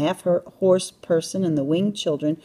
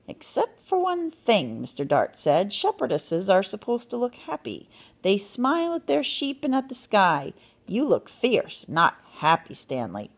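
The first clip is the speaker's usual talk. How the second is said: lilting, mildly exacting correction; fussy critique; 3 semitones higher than usual. Character corrects Stanley's posed expression.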